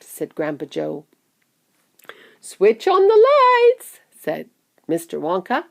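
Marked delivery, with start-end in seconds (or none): 2.4-4.0 high, slow, loud shout; called-out order. Acted. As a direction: yell a stretched command down the tunnel. Wonka calls an order.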